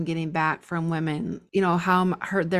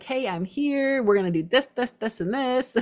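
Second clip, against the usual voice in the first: high, bright rush-in announcement; eager go-getter; 5 semitones higher than usual. Pretend. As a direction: burst in ready to take charge, higher. Rushing through the doors, acting it out.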